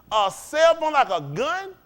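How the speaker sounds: slow, rising disbelief; a cell phone, really?; incredulous. Acted. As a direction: drag it out in disbelief. Incredulous rhetorical question.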